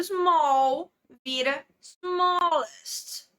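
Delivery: "small" then "smallest", slowed and set apart; slow English example. Shown as a demonstration. Teacher slowly models superlative "smallest" for students. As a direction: lean on the est ending of "smallest". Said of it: "Por exemplo".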